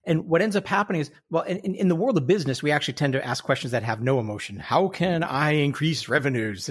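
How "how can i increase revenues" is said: slow, flat robotic question. Retold or imitated. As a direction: read it like an emotionless machine. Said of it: "And you sound like a robot".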